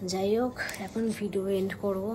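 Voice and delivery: quiet night voice; speaking softly. Real, not acted. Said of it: "আস্তে আস্তে কথা বলছি".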